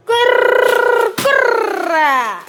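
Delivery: कुरकुरा with hugely rolled r's, loud and high; playful drawn-out cry. Pretend. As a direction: stretch कुरकुरा out, trilling each r, then swoop down. Playful drawn-out repeat of snack name. (कुरकुरा लांबवून, र घोळवत मोठ्याने)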